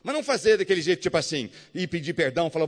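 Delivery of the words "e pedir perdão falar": usual speaking voice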